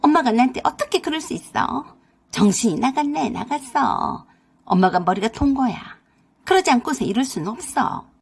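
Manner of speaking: stomp and rant at mother; raging. Acted. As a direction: daughter throwing a fit over the Benz. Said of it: "노발대발하며".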